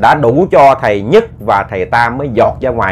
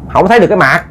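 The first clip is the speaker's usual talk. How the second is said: nonchalant reply; 5 semitones higher, faster than usual. Acted. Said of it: "Trả lời tỉnh bơ".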